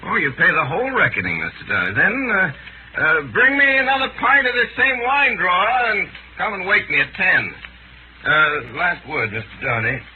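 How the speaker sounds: slurring a little, tipsy; drunk. Acted. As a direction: talk like you've had too much wine. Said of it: "I think you have been drinking".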